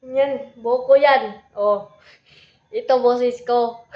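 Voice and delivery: put-on boy voice demo. Shown as a demonstration. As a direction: show off the tough boy voice, slowly. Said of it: "ano yung voice ko?". (mabagal at malakas na boses lalaki)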